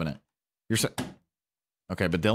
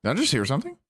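ordinary talk

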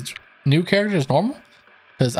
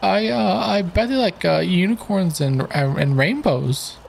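higher, hopeful sidekick; character voice; 5 semitones higher than usual. Acted. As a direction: sidekick daydreaming of unicorns. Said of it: "nice voice acting stuff here".

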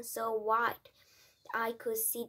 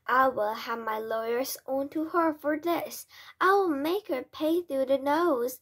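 loud, indignant vow, rising higher; angry threat; 3 semitones higher, 7 dB louder than usual. A narrator's reading. Father threatens the witch with lawyers, loud anger. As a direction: vow revenge with mounting volume.

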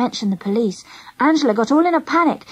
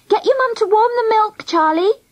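high, carrying call; shouting after someone; 9 semitones higher than usual. A narrator's reading. Angela calling to friend hurrying away, shouting. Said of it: "Angela shouted after me".

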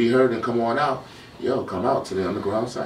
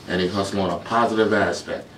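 positive hit firmly as the key word; stress on positive. Real, not acted. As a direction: lean on positive, keep the rest level. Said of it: "I emphasize that word positive".

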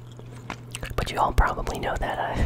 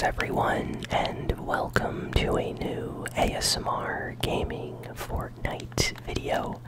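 ASMR whisper. Real, not acted. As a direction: whisper close to the mic. ASMR gaming whisper throughout.

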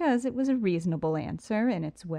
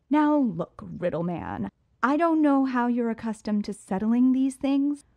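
forceful; 5 semitones higher, 5 dB louder than usual. Acted. Heroine confronts armed Riddler.

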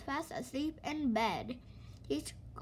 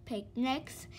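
whiny complaint rising on don't; complaining; 2 semitones higher, 4 dB louder, much slower than usual. Acted. Mister Slow complains to Mister Busy, grumbling. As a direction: moan about it. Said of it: "he complained".

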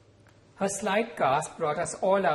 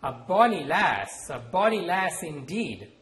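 slow, savoured Scottish-tinged brogue, a bit louder; hearty Scottish-ish accent; 2 semitones higher, 6 dB louder than usual. Acted. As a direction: roll out bonny lass like a roguish Scot. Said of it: "dropping her hearty voice and accent".

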